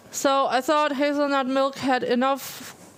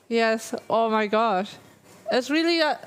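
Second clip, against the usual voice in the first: ordinary talk, nothing marked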